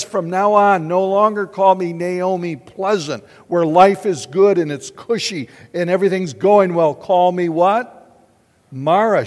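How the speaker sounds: loud, pleading cry of grief; Naomi's cry. Acted. Naomi voiced crying out.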